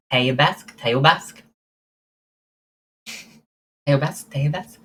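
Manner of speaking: Teubask tried out with a rising, questioning end; unsure pronunciation. Shown as a demonstration. Streamer unsure she is pronouncing the Romanian right, questioning. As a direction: sound out Teubask, checking each attempt. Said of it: "I don't know if I'm pronouncing it right".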